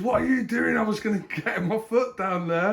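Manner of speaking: high loud indignant protest. Retold or imitated. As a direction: snap back, outraged. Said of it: "And she goes".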